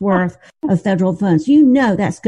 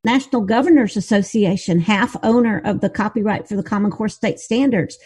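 muffled voice over a bad line. Real, not acted. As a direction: sound muffled, as if through a hand. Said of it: "It's so muffled".

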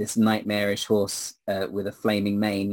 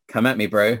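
cocky challenge; 4 dB louder than usual. Acted. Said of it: "All right".

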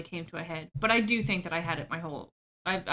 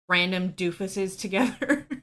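laughing; 4 dB louder, slower than usual. Real, not acted. Laughing while describing friends.

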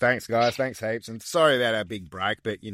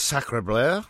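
mock French; 2 semitones higher than usual.

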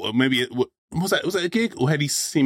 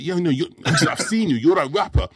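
insistent stranger; 5 semitones higher, slower than usual. Retold or imitated. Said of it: "So he's like".

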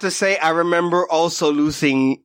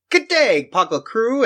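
higher-pitched, half-hearted Aussie greeting; hammed-up Australian hello, pitched up; attempted Australian accent; 5 semitones higher than usual. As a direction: try an Aussie accent, badly. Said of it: "I can't do an accent".

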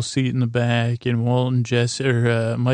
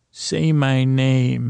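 drawn-out demand; much slower than usual. Retold or imitated. Retold menacing demand to rival dealer.

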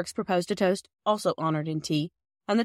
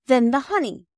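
hasty, higher and louder; in haste; 7 semitones higher, 7 dB louder than usual. A narrator's reading. Girl hurrying on to the next present, hasty. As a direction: jump in hastily. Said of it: "said Bobby in haste".

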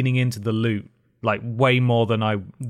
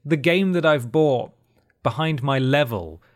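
exasperated rant; 7 semitones higher than usual. Real, not acted. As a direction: plead with the game in frustration.

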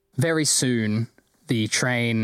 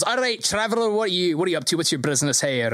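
higher, suspicious guard voice; wary dragonborn guard; 5 semitones higher, much faster than usual. Acted. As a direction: eye the stranger and question him. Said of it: "a wary look and goes".

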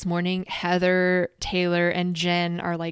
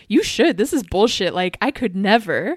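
mock Vicky; 6 dB louder than usual. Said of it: "Vicky's like".

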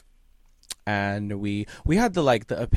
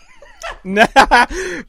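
failed evil laugh; 14 semitones higher, 11 dB louder than usual. Pretend. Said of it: "wait, that sucked".

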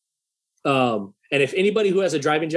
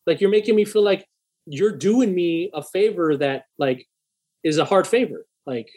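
heated; 4 semitones higher than usual. Retold or imitated. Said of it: "I was kinda heated in the truck".

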